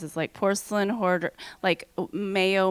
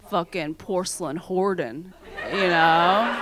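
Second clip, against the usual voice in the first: laughing through the words; 2 semitones lower than usual. Real, not acted. Laughing at her own joke.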